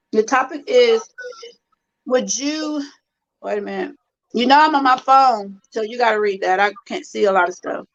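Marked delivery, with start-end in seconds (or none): 0.1-3.9 mouth full. Real, not acted. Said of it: "my mouth full".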